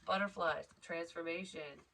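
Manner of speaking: normal talking voice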